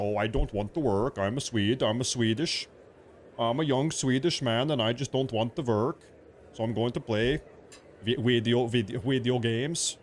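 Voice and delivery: a light put-on Swedish accent; mock Swedish accent. Mimicking lazy Swedish gamers for viewers, light Swedish accent. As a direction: lazily whine it like a young Swedish gamer. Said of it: "in their crazy Swedish accent".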